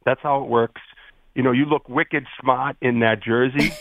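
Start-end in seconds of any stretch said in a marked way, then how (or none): 1.5-3.7 lazy Boston accent with dropped Rs. Shown as a demonstration. Boston fan showing a producer how, in Boston accent. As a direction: let the Rs go, Boston style. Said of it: "be very lazy when you talk".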